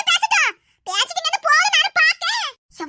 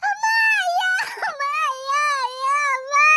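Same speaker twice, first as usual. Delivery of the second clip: hammed-up pain cries; slower than usual. Faking pain.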